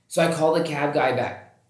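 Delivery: ordinary delivery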